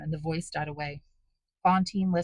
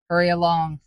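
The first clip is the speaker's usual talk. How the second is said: loud bestial bark; savage command; 9 dB louder than usual. A narrator's reading. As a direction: hurl the words like a wild beast. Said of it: "reminded you of a wild beast and a madman".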